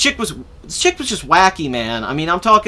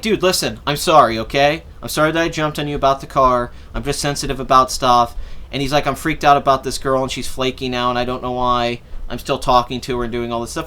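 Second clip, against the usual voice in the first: low-pitched imitation of an apologetic friend; subdued, mock-contrite confession; retold sincere apology; 6 semitones lower than usual. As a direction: lightly act out a pal saying sorry, voice dropped. Friend's apology acted out in story.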